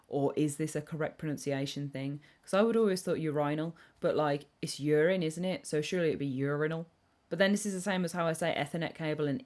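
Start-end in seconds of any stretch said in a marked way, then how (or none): 2.4-3.7 urinal with stress on RI, as yoo-RYE-nal; urinal one way. Shown as a demonstration. Streamer compares her usual urinal to another. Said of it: "do you say it like urinal". 5.7-6.9 urinal with stress on YOO, as YOOR-in-al; urinal other way. Shown as a demonstration. Streamer argues urinal should follow urine. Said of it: "or do you say it like urinal".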